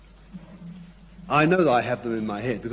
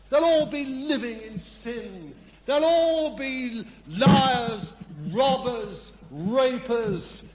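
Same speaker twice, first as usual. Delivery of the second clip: high, declaiming voice of God listing sins; preacher voicing God, high and grave; 8 semitones higher than usual. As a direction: lament as God foreseeing the people's sins.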